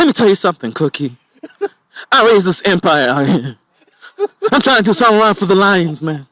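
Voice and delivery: mock teary Terrence Howard; whiny near-crying plea; tearful goodbye. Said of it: "Terrence Howard always talks like he's crying".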